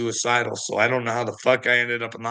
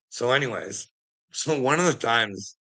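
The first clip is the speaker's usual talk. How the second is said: usual speaking voice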